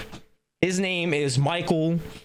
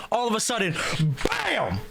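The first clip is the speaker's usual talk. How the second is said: sudden bam. Retold or imitated. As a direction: burst out the bam like a hit. Sudden hit in retold story.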